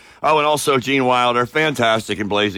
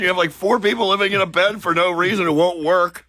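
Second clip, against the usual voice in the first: Willy Wonka impression; 9 semitones higher than usual. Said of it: "He goes".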